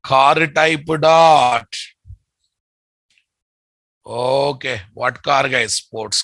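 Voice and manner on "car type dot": loud slow dictation. Shown as a demonstration.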